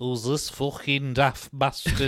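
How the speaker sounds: low, slow comedian impression; lightly voiced grumbling comic; Bernard Manning. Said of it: "That's my Bernard Manning impression".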